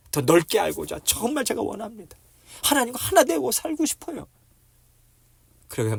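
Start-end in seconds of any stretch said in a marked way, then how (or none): 0.1-4.3 high-pitched, earnest longing; fervent prayer. Acted. Believer longing to be one with God, fervent prayer. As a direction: climb higher with each plea to God.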